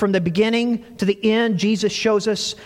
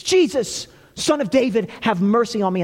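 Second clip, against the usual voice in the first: higher, pleading call; calling even louder; 5 semitones higher than usual. Retold or imitated. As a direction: cry out to be heard over the crowd. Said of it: "he calls even louder".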